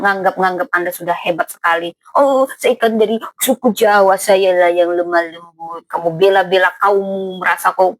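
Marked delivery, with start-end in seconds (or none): 2.2-5.9 mocking boast. Mocking self-proclaimed gentle Javanese.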